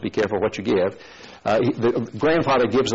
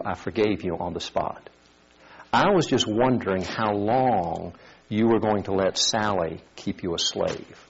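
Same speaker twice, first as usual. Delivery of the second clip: soft, lower gentle grandmother; tender granny; 3 semitones lower, 4 dB quieter than usual. Acted. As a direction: forgive him kindly. Grandmother gently forgiving the boy.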